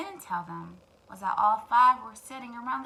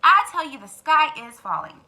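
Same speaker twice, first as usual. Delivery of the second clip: frantic hen; 3 semitones higher, 10 dB louder than usual. Acted. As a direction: insist the sky is falling, alarmed. Henny Penny insists, frightened.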